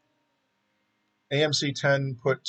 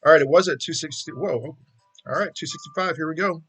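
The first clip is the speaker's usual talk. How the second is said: excited; 4 semitones higher, 5 dB louder than usual. Real, not acted. Price jump excitement.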